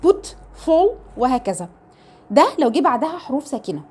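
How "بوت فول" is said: "بوت، فول" with a short "oo". Shown as a demonstration. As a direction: keep the vowel brief and rounded in "بوت، فول". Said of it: "لا اما زي الاو". (نطق "بوت، فول" بواو قصيرة)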